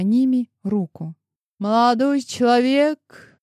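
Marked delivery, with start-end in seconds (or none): 1.6-3.4 slow, higher, louder showy call; theatrical exclamation. A narrator's reading. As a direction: play it up for the guard. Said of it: "картинно воскликнула она". (картинно, громче и выше, нараспев)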